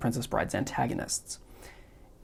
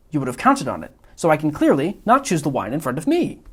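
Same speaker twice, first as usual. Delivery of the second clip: louder, higher, rapid self-pleased reasoning; Wallace Shawn's Vizzini; 4 semitones higher, 4 dB louder than usual. Acted. Vizzini lecturing the Man in Black on the poison, loud and smug. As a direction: build the logic faster like a gloating genius. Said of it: "mimicking Wallace Shawn's inflection".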